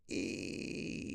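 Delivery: a tiny unvoiced squeak; mock squeak. Mocking a date gone limp, tiny squeak. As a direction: make the sound of a limp reaction. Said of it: "your dick is just going like this".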